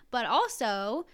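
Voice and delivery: normal talking voice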